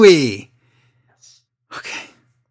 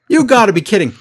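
Cole's voice; 4 semitones higher, 4 dB louder, much faster than usual. Retold or imitated. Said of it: "Cole doesn't have another voice".

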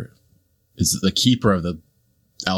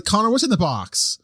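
movie-line outburst; 12 semitones higher than usual. Acted. Quoting the famous movie line.

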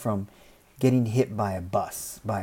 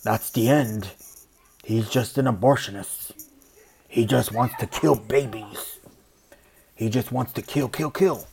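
louder, slowing down on kill babies; mocking evangelical; 4 dB louder than usual. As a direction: ham up an outraged believer. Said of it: "evangelicals who are just like".

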